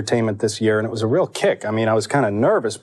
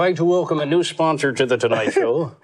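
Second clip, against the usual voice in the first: Johnny Carson. Retold or imitated. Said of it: "we feel like Johnny Carson here".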